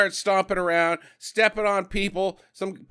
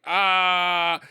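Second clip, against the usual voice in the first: imitated scream. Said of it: "And Nora's like".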